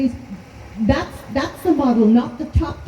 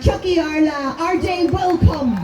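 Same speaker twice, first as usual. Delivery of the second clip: roaring rallying speech; 3 semitones higher than usual. Acted. Shouted closing slogan at rally.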